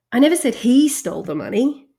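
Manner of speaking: "said" leaned on, sentence ends rising; shifted stress. Shown as a demonstration. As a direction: emphasise "said" as if only implied. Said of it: "To demonstrate this".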